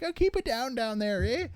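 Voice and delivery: high-pitched mock complaint; hammed-up annoyed upstairs neighbour; grumpy neighbour voice. Quoting a comedian's grumpy neighbour.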